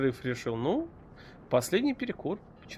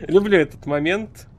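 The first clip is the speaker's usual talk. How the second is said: excited; 2 semitones higher, 8 dB louder than usual. Real, not acted. Excited at favourite game moment.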